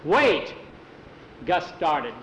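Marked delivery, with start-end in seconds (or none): 0.0-0.5 loud call to stop him; yell. Acted. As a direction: shout across the swamp to stop him. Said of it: "Tom yelled".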